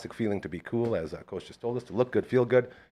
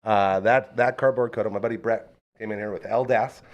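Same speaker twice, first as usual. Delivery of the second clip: usual speaking voice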